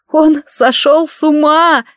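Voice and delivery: high, slow, tearful wail; through tears. A narrator's reading. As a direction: fight back tears and fail. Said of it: "пытался сдержать слёзы".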